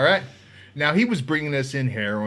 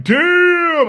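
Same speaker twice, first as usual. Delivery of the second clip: much higher, loud stunned damn; shocked damn; 9 dB louder than usual. Retold or imitated. Rival inmate seeing the bigger knife, loud stunned damn. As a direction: blurt it out, floored.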